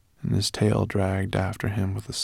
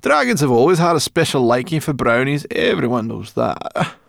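smug brownie voice, slowing at the end; a little puffed up and pleased; a hint of pride; 5 semitones higher, 5 dB louder than usual. A narrator's reading. Sorrel proudly brushing off the dragon's compliment, smug. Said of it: "couldn't suppress a proud smile".

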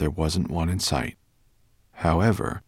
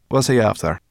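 loud, raised, growly brownie; grumpy little creature's growl; 5 semitones higher, 7 dB louder than usual. A narrator's reading. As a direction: growl a suspicious question. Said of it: "growled Sorrel".

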